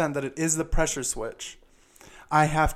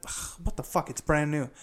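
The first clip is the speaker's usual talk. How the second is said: muttered quote; 6 dB quieter than usual. Retold or imitated. Muttering at a faulty part.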